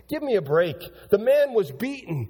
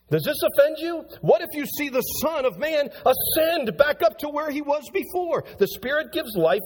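pitched up, pressing the question; Jesus challenging the crowd, pitched up; raised preaching voice as Jesus; 4 semitones higher than usual. Acted. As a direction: lean in and challenge them, voice lifted.

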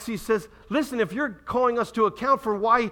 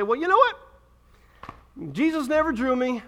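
lazy excuse; 3 semitones higher than usual. Retold or imitated. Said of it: "sit back on your haunches and say".

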